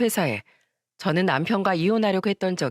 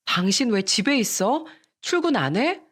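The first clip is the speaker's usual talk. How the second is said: surprised question; 4 semitones higher than usual. Retold or imitated. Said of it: "깜짝 놀라 남편을 보면서 물었습니다".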